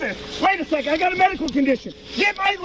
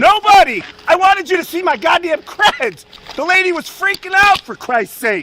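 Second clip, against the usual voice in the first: angry; 3 dB louder than usual. Real, not acted. Agent yelling back.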